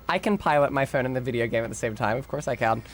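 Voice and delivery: ditzy airhead voice, lightly done; breezy brainless bimbo delivery. Acted. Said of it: "doing the bimbo voice now".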